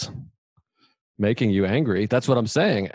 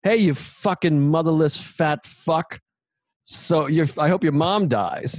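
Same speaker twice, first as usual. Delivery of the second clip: mock furious insult; 5 semitones higher than usual. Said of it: "you could have been like".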